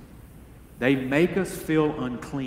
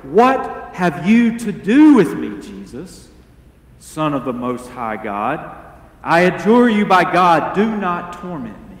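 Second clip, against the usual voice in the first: loud cry; 4 dB louder than usual. Retold or imitated. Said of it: "He cried out in a loud voice".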